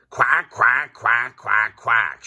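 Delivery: high, loud duck quacks; loud quacking. A narrator's reading. Dottie sits in the park quacking, loud shouting. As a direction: blare each quack out. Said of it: "shouts Dottie".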